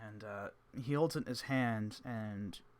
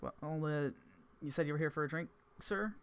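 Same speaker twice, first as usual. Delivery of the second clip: higher polite barkeep; a bartender asking, a bit higher; Celica voice; 5 semitones higher than usual. Acted. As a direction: barkeep asking if the guest wants a drink.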